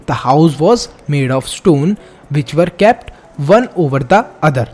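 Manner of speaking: slow, deliberate textbook reading; measured classroom read-aloud; reading aloud slowly. Acted. Reads textbook passage aloud.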